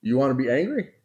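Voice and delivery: rising, taunting "you wanna be angry?" with a laugh; preacher's playful angry-God impression; mock threat from God. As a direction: dare him, half-joking, half-menacing. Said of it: "if it was me, would say".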